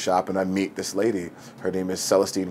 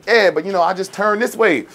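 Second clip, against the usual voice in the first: put-on protesting young actor; 10 semitones higher, 4 dB louder than usual. Young actor argues with director.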